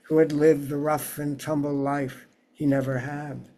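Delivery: measured poem recital, phrase by phrase with pauses; unhurried literary reading, settling at line ends; poetry reading. Acted. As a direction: read your poem aloud to an audience, lifting each new sentence. Reads own poem aloud.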